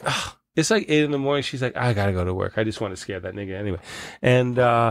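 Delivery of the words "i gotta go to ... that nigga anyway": low, quick, soft retold dismissal; offhand. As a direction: toss it off quietly, imitating her nonchalance. Quoting the armed woman's casual dismissal.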